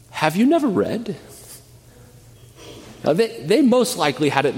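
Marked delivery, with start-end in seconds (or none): 0.1-1.1 hint of sarcasm. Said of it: "he says with a hint of sarcasm".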